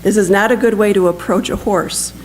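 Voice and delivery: measured storytelling with livelier pitch movement; lightly animated reading from a book; story narration. A narrator's reading. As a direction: read the war story aloud to an audience. Reads a written war story aloud.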